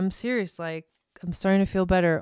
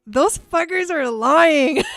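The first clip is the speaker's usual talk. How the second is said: laughing outrage; 8 semitones higher, 5 dB louder, slower than usual. Retold or imitated. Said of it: "I was like".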